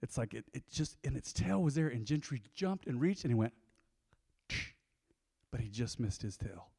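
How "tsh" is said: quick hissed whoosh; short sibilant snatch sound effect; imitated swipe noise. Storyteller showing dog reaching for the tail, swipe noise.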